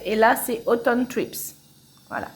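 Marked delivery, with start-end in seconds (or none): 0.7-1.6 English title with a French accent. Real, not acted. Crafter naming the second project for viewers, French accent. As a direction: say the English words with French sounds. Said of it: "désolé pour mon accent anglais".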